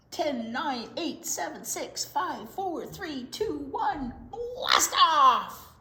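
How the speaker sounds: high countdown ending in a loud shout; countdown to blast off. Acted. Countdown to launch.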